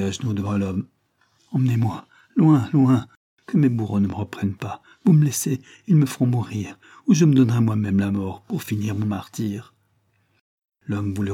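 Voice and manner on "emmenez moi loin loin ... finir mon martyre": put-on louder, urgent child's begging; implore, pushing the key words; desperate plea. Chiffon kneeling before the man, desperately begging.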